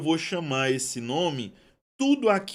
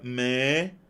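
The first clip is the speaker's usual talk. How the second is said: "médico" split as mé... di... co; "médico" stretched out in separate syllables; 4 semitones lower than usual. Shown as a demonstration. Splits example word into syllables.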